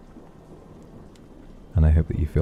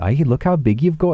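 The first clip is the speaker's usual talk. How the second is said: Scottish relative; 8 semitones higher than usual. Retold or imitated. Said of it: "when they say".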